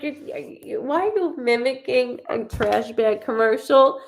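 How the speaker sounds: high teasing disbelief; mock incredulous. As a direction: tease her like a bad ad. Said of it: "I'm like".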